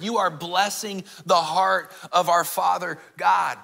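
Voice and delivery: rising preaching. Acted. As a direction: build the point up into the close. Preaching climax.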